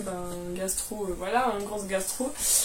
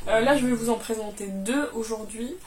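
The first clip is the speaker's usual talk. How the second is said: cracked, hoarse voice. Real, not acted. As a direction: speak through a worn hoarse voice. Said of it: "j'ai la voix cassée".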